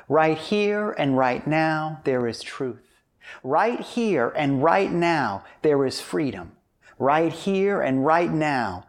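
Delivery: slow, measured prayer voice. Acted. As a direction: pray it slowly and firmly. Leads an opening prayer.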